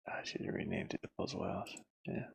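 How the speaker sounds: breathy whispered aside to himself. Real, not acted. Developer whispering a joke about the room name to himself. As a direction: whisper it under your breath, half joking. Muttered aside while building level.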